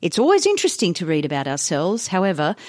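put-on measured old-newspaper editorial reading; reading aloud. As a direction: read the article out with deliberate phrasing.

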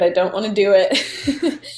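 laughing through a half-joking whine. Retold or imitated. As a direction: giggle out the protest. Dreading her first wedding.

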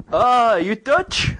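high, drawn-out "oh" of discovery; surprised question. Retold or imitated. Kebab man guesses his nationality.

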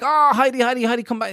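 high, sing-song coaxing call to the cat; high cooing call to Heidi; coaxing owners. Retold or imitated. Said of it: "they'd be like".

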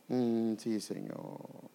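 barely voiced, half-whispered mumble; reluctant mumble. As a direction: mumble it like a half-hearted churchgoer. Believer's reluctant mumbled answer. (murmullo apenas susurrado y desganado)

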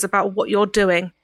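soft Cockney, slow and disappointed; light Cockney cold disappointment. Acted. Ceridwen telling the prisoner she is disappointed, soft Cockney. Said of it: "A soft Cockney accent".

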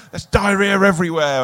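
high-pitched mock horror; imitated belting out. Appalled actor reporting the mess in his toilet, mock horror. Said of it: "He's going belting out".

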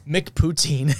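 anglicised "McPoutine", rhyming with routine; American pronunciation. Real, not acted. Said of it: "still can't say it right".

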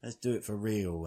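high, slow accusing whine; whiny accusation. Retold or imitated. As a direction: draw out the accusation. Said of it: "the guy's like".

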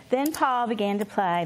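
gentle read-aloud voice; storyteller reading a children's classic aloud; story narration. Acted. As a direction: read it like a bedtime story to the family. Reads Little House aloud.

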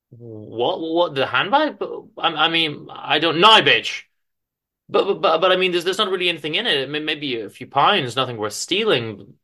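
flustered panic. Acted. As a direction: stammer and babble in shock. Madeline panics at mugging.

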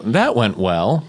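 slow, dry sarcastic line. Pretend. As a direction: drag it out dryly. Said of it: "you go".

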